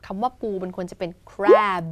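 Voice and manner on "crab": CRAB with long vowel and voiced B ending; voiced final B. Shown as a demonstration. Teacher modelling the word for the seafood, long CRAB. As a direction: draw out CRAB and let the B sound. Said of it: "มีเสียง บอใบไม้ เบิกให้ด้วย".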